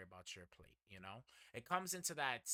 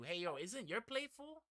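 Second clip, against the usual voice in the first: a higher worried friend's question; concerned friend; 10 semitones higher than usual. Retold or imitated. Friend asks if his plate is full, higher and concerned. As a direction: play the caring buddy checking in.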